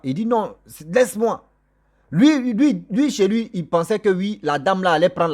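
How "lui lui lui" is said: usual speaking voice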